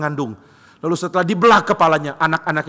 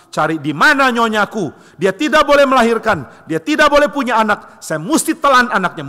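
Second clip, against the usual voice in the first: frantic god; 5 semitones higher, 4 dB louder than usual. Acted. Cronus hunts his wife.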